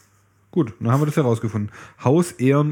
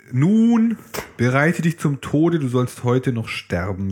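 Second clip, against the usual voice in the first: Blaubart's death threat; slower than usual. Acted. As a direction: boom out the threat. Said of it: "sagte der Blaubart".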